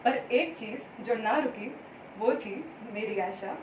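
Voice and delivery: measured Hindi verse with lilting phrases; poetry recitation. Acted. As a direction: recite it line by line, pausing between lines. Recites her Hindi poem.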